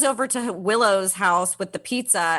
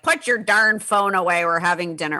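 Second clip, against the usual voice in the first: lightly put-on New York accent; a hint of New York accent, mock fatherly order; dad's New York accent. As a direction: imitate a dad scolding in a New York accent. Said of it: "I don't know why I use that accent".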